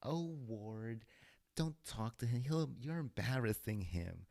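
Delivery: high-pitched fifties housewife; mock mother. Wife telling Ward he's embarrassing him, mock mother voice. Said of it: "do a female woman's voice".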